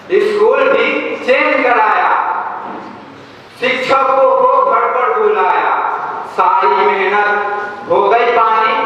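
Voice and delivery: lilting recital with measured pauses between lines; poem recitation. Acted. Cadet recites comic poem about getting zero in maths, rhythmic recitation. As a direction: recite each repeated line in a rhythmic, rising-then-falling lilt.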